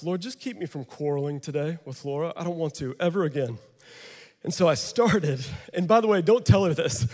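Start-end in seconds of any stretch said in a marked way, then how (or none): 0.0-3.6 hushed prayer. Retold or imitated. Quoted private prayer.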